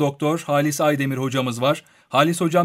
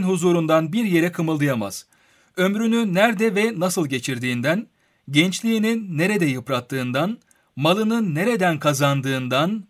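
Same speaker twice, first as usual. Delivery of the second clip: solemn recitation. Acted. Reads a hadith aloud.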